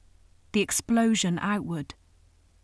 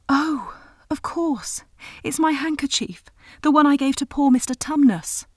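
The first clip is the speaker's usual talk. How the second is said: put-on high, bright-eyed girl's realisation; excited little girl; 7 semitones higher, 6 dB louder than usual. A narrator's reading. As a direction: lift it up high as a young girl who suddenly remembers. Lucy suddenly recognising handkerchief.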